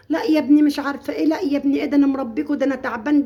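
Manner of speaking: hammed-up complaining mother; mock scolding mother. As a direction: wail the guilt trip like a hurt mom. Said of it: "مش عايزه ايه".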